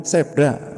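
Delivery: "Zebra" said as "Sebra", voiceless s; imitating everyday "Sebra" for "Zebra". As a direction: start "Zebra" with a hissed s. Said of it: "Mungkin orang-orang mengucapkannya".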